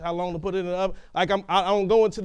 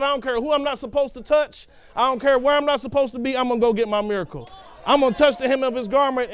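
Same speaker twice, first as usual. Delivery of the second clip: determined resolve; 3 semitones higher, faster than usual. Retold or imitated. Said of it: "faith rose up in her".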